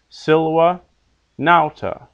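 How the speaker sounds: SILva, NAUta, each stressed at the front; first-syllable stress. Shown as a demonstration. Teacher illustrating two-syllable rule, Silva, nauta stressed on first syllables. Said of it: "accented on the first syllable".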